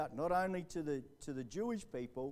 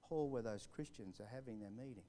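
soft inner voice; 3 semitones lower, 7 dB quieter than usual. Retold or imitated. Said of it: "this little voice said".

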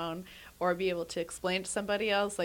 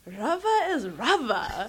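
amused mock exasperation; 4 semitones higher, 6 dB louder, much slower than usual. Imitated cook, exasperated, laughing.

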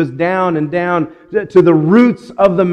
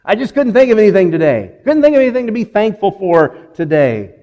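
lightly mocking a whiny complainer, a bit louder and higher; whiny complaint; 4 semitones higher, 3 dB louder, faster than usual. Pastor mimicking a Facebook poster complaining, in a mild whine. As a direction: imitate a friend griping they found nothing to be thankful for. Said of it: "hear someone complain".

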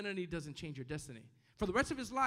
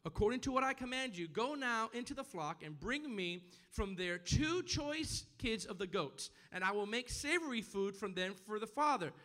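raised, emphatic preacher's reading; scripture reading; 4 semitones higher than usual. Acted. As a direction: read the verse out to the congregation. Reads scripture aloud to congregation.

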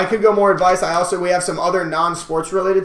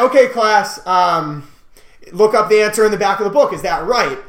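lightly imitated teacher, raised pitch and volume; calculus teacher; 4 semitones higher, 4 dB louder than usual. Telling friends how his teacher ran class, lightly imitated teacher voice. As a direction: address the class as a mildly put-on teacher. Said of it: "my calculus teacher".

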